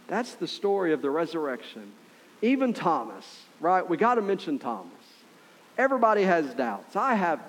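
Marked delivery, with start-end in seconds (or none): none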